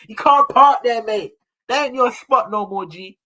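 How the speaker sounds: hammed-up loud warning to Arteta; telling him off. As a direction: shout it at the manager as the season ends. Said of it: "This is what we should be telling him".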